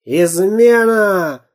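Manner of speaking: furious pirate bark. A narrator's reading. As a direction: roar out treason. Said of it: "рявкнул пират".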